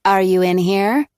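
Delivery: lilting sing-song question. Acted. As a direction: ask it like a playful tune. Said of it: "in a sing-song voice".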